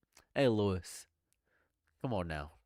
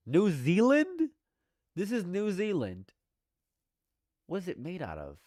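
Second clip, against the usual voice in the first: stunned; 8 semitones higher than usual. Real, not acted. Streamer learning the flavor's origin, high and stunned. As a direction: stretch out New Zealand in amazement.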